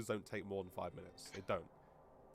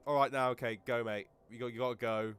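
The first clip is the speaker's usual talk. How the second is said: polite firm dismissal; 7 dB louder than usual. Retold or imitated. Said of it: "what I did say was like".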